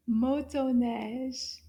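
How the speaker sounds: motoneige drawn out slowly, syllable by syllable; teacher modelling motoneige slowly; slow model word. Shown as a demonstration. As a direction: say motoneige slowly for the kids to copy. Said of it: "If you said motoneige".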